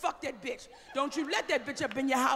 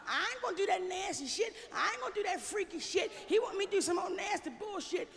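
a hint of a whiny prudish wife, higher; lightly voiced prim wife refusing; mocking prudish wives; 4 semitones higher, 6 dB quieter than usual. Comic mimics prudish wives, lightly voiced and prim. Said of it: "crazy bitches sitting out there talking about".

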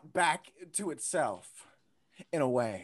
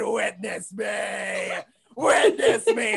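grand proclamation; 2 semitones higher, 3 dB louder, much slower than usual. Retold or imitated. Declaring himself to the children, slow then shouted. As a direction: proclaim yourself like a hero.

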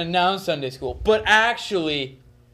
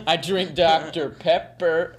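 laughing; slower than usual. Real, not acted. Joke said through laughter.

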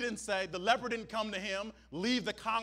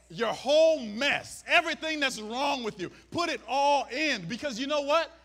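preaching at full force; 5 semitones higher, 7 dB louder than usual. Real, not acted. Preaching climax.

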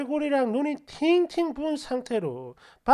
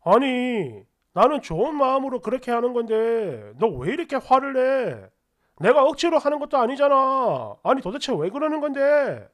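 retold husband's angry protest, louder; getting angry; 5 dB louder than usual. Husband protests angrily that he meant well, raised voice. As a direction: push back at her, louder. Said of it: "이러면서 화를 냈고".

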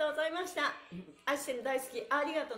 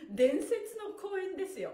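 higher, louder, slow proclamation; emphatic praise; 6 semitones higher, 3 dB louder, slower than usual. Real, not acted. Instructor hyping the upcoming screening, slow and emphatic. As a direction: proclaim it as legendary.

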